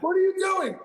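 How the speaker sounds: high, loud mock freak-out; exasperated comic shout; retold panicked yell. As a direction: holler it in comic desperation. Retold peak alarm at friend.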